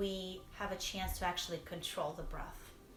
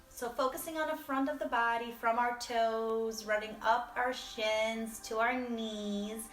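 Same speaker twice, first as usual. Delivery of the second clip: guided meditation; 2 semitones higher than usual. Real, not acted. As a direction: guide them through inhale and release, leaving pauses. Leads a body scan.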